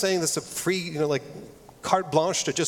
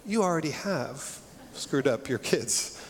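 gentle reassurance; 5 dB quieter than usual. Retold or imitated. Counselor Sandy gently reassuring the scared couple, soft and tender. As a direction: soothe them like a worried child. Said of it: "almost like".

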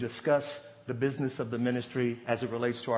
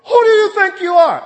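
much higher and louder outraged shout; hammed-up confrontation with the boss; mock snapping at boss; 16 dB louder than usual. Worker snapping at the boss in the office, mock outraged shout. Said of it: "As though you go to the boss and say".

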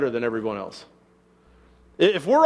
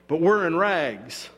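slow, mock-admiring praise; sarcastic; slower than usual. Paul mocking the proud church, slow and sarcastic. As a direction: drag it out like fake flattery. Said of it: "He's be-, being sarcastic".

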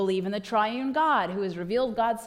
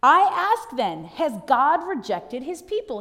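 Paul asking boldly; 2 semitones higher, 6 dB louder than usual. Acted. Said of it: "He's saying to them".

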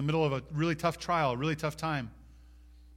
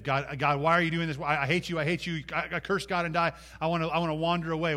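acted complaint, pitched up and pressing; bitter outburst at God; 4 semitones higher, 4 dB louder than usual. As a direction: imitate someone railing at God. Voicing someone bitter at God.

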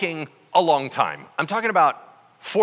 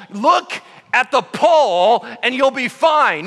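louder, higher, slow spelled-out order; exasperated repetition; 6 semitones higher, 6 dB louder, slower than usual. Retold or imitated. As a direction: repeat it slowly, losing patience. Moses repeats order.

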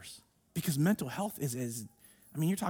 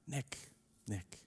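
very soft and lower, gentle calling; tender; 10 semitones lower, 16 dB quieter than usual. Shown as a demonstration. The pastor putting his own name in, softly. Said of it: "put your name right there".

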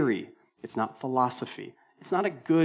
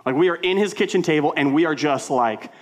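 louder, fast and worked up; heated retelling; 5 dB louder than usual. Real, not acted. Pastor telling church about a kitchen shouting match, loud and worked up. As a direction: tell it like the fight is still going.

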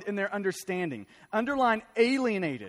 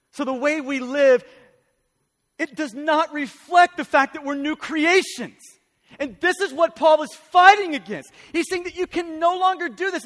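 raised, emphatic sermon delivery; impassioned preaching; 3 semitones higher, 5 dB louder than usual. Real, not acted. Pastor urging the church to walk worthy of the gospel, impassioned preaching. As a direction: preach it with urgency, key words punched.

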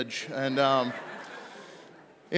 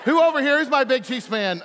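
laughing while asking; 5 semitones higher, 4 dB louder than usual. Real, not acted. After the thrown box hit someone.

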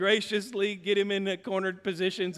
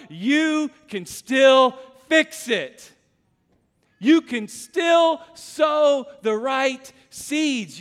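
preaching at full force; slower than usual. Acted. Preacher's climactic appeal.

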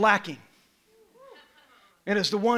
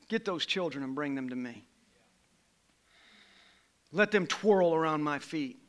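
gentle voice of Jesus; 2 semitones lower than usual. Acted. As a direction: draw the children in gently. Quiet tender voicing of Jesus.

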